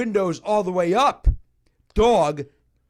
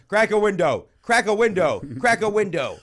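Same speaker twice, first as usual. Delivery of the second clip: repeated mock yell; 4 semitones higher, 5 dB louder than usual. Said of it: "I just kept yelling".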